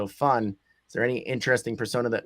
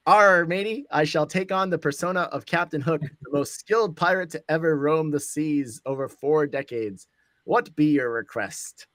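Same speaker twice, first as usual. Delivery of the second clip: pirate voice. Acted. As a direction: hail them like a pirate captain. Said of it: "our new persona here is".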